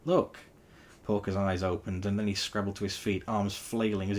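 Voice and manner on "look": high, loud urgent shout; urgent call out. Acted. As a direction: call out sharply. Sonic calls out.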